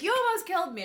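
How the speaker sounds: high-pitched acted outrage; mock super pissed. She blames Gunso for the accident, mock super pissed. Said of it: "she's, like, super pissed".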